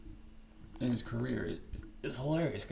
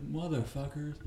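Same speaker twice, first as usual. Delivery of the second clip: mock outraged protest; 2 semitones higher, 5 dB louder than usual. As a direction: play the wronged family man shouting back. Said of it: "And D C's like".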